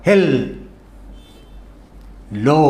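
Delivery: హెల్, long pause, then లో; syllable by syllable. Shown as a demonstration. Teacher showing where to break the word, syllable by syllable. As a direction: hold హెల్ and లో far apart. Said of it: "ఈ పదాన్ని మనం పలకగలం".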